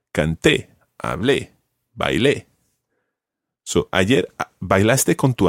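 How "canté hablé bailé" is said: Canté, hablé, bailé each stressed on the last é; stress on the final E. Shown as a demonstration. Teacher showing that the preterite stresses the final é. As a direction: hit the é at the end of every verb. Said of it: "there really is a stress on the E".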